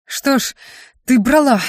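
slow, pointed sarcasm with pauses between phrases; sarcastic. A narrator's reading. Luke questioning the girl who took them, sarcastic. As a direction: needle her word by word. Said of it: "с сарказмом осведомился Люк".

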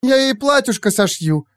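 put-on high gushing girl voice; excited girl. Aurora gushes over her pet, high excited voice. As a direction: gush about sewing a dress.

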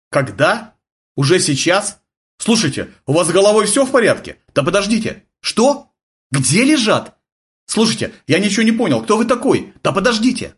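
a sergeant losing patience with a strange caller; baffled sergeant. A narrator's reading. Sergeant shouting into the radio at a strange caller, baffled.

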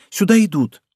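understated cry of alarm. A narrator's reading. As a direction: warn a friend with mild alarm. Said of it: "вскрикнула лавальер".

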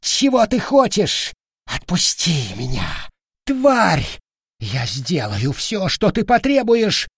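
high, panicked pleading squeal; voice cracking into squeal. Acted. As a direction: beg in terror, voice breaking upward. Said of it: "голос вампира срывался на визг".

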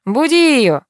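a husband shouting his wife awake; angry shout. A narrator's reading. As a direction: bark it at her in rage. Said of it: "Заводится муж".

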